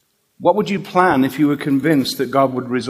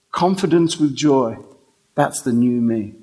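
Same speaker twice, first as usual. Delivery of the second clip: calm smile; 4 semitones lower than usual. Retold or imitated. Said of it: "and she smiled".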